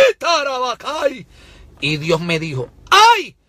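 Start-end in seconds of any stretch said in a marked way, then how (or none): 0.1-1.3 speaking in tongues. Real, not acted. Speaking in tongues mid-sermon. 2.9-3.4 very high, loud wail; cry of woe. Real, not acted.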